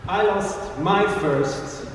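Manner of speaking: slow, measured poetry reading; spoken-word performance; poem recital. Acted. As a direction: let each line land with pauses.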